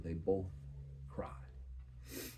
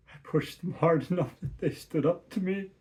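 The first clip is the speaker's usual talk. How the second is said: rising, strained voice; 10 semitones higher, 6 dB louder than usual. Acted. Inner part speaks, voice rising.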